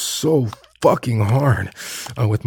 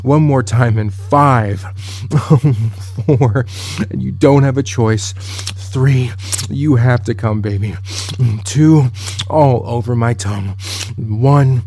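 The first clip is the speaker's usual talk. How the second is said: countdown swelling louder to the end; building countdown; 3 dB louder than usual. Acted. Commanding her partner through a louder countdown. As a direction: push harder with each number.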